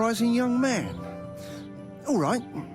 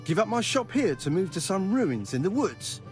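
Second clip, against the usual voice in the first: higher, slow incredulous question; 6 semitones higher, 4 dB louder than usual. Acted. Smith asked to leave his shop for ruins, incredulous. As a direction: balk at the absurd proposal.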